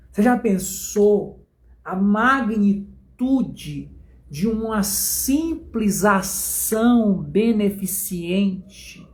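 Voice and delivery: drawn-out, solemn sermon emphasis; slow preaching. Acted. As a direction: preach it slowly, letting each phrase land.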